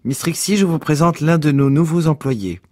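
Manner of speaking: high, emphatic presentation. Acted. Boss introduces newcomer to dozy employee.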